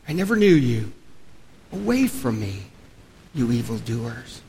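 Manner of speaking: low, soft pronouncement of judgment; grave, hushed words of rejection; solemn dismissal. Acted. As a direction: send them away quietly and gravely. Quotes Jesus's stern dismissal.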